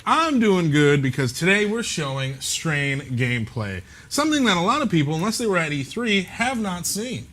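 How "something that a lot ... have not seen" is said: big broadcast announcer read; newscaster voice. Acted. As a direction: read it like a TV news anchor. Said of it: "just went into that, uh, newscaster voice".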